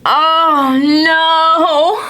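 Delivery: storybook cat voice in gentle dismay; Pete dismayed. Acted.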